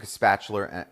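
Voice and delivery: spatula ending in an r sound, New Jersey style; New Jersey accent. Real, not acted. Cook telling viewers how she gets food out, New Jersey accent. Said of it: "that's my New Jersey accent coming out".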